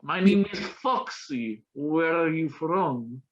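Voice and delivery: slow, breathy-free seductive purr imitation; slow mock seductive greeting; seductive stripper. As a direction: drag it out like a flirty stripper. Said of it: "trying to be all seductive".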